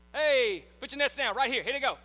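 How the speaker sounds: loud call across the boat; Jesus calling out. Retold or imitated. Jesus voiced in the story.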